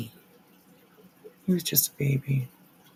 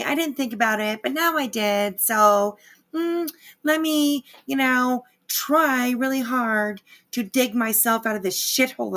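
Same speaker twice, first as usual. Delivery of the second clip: sing-song, higher mock apology, sneering; mocking Laura; 6 semitones higher than usual. Streamer mocking Laura's fake apology to chat, sarcastic high sing-song. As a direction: parrot her fake remorse back in a higher, prissy voice. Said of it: "and you're like".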